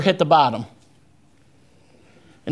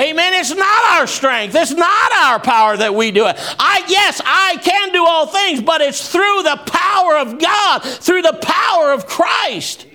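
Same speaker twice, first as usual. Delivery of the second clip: high, raised preacher's voice, rolling cadence; fiery preaching; 8 semitones higher than usual. Acted. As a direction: lift the congregation with rising fervour. Preaching at full force.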